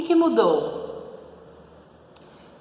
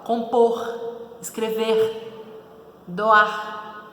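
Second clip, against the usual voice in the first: put-on Minas accent; much slower than usual. Teacher imitating a person from Minas, slow. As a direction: drag it out like someone from Minas. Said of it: "uma pessoa de Minas".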